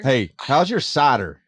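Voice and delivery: slow Southern drawl on "how's your cider"; slow Arkansas accent, friendly ribbing. Shown as a demonstration. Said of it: "I can say that 'cause I'm from Arkansas".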